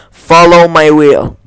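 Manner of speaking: "Follow my will" spoken slowly as a command; casting a spell. Pretend. The streamer casts a spell in the game, slow and commanding. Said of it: "guardate come si pronuncia".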